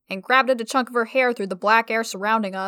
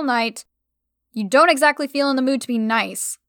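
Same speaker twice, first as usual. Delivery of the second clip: rambling. Acted. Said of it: "I rambled back".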